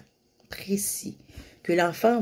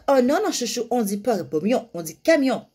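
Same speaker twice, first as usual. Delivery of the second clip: correcting scold; 4 semitones higher than usual. Shown as a demonstration. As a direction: demonstrate the wrong, correcting tone. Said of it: "Mais tu vas pas dire".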